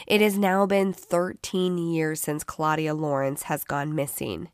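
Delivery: tired, groggy-sounding voice. Real, not acted. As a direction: read it through a groggy sick voice. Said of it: "enduring my groggy voice".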